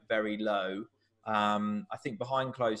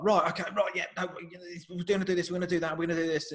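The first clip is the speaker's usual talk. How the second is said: fast, high-pitched Scouse manager firing off plans; a Scouse manager juggling everything at once, higher and fast; broad Scouse accent; 6 semitones higher, faster than usual. Retold or imitated. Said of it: "this really broad Scouse accent".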